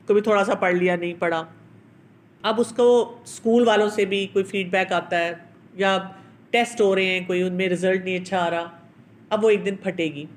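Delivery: normal talking voice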